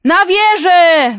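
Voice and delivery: calling out. Acted. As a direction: cry out to the crowd to run to the tower. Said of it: "wołano".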